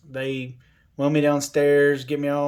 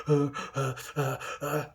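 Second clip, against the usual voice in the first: imitated breathing spasm; 5 dB quieter than usual. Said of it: "start having a spasm".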